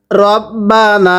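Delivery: রব্বানা with a short র, not রা, doubled ব; correct short vowel. Shown as a demonstration. Teacher models the correct রব্বানা for students, short র. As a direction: say রব্বানা with a clipped রো and a held ব্ব. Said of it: "রাব্বানা পড়ি, পড়া শুদ্ধ হবে না".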